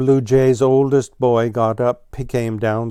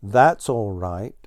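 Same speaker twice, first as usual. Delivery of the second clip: whispered. Acted. Blue Jay hushing Squirrel.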